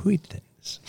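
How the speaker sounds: long airy WH opening "Wheatons", said softly; exaggerated wh. Co-host repeats the name gag, airy WH in "Wheatons". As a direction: stretch the breath before "Wheatons".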